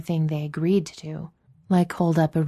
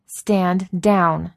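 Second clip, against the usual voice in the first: firm, steady, less loud; firm repeat; 3 semitones higher, 5 dB louder than usual. A narrator's reading. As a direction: repeat the order with authority. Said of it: "she repeated".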